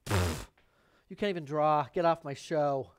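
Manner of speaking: loud scornful judge scoffing; judgy Da Vinci. Retold or imitated. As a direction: scoff and shout him off the show. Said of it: "And he's just like".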